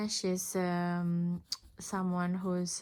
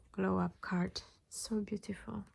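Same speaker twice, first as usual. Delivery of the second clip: whispered, softer, in awe of the card; admiring whisper; 6 dB quieter than usual. Real, not acted. Reader showing a beautiful card to viewers, awed whisper. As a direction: breathe it out in quiet wonder.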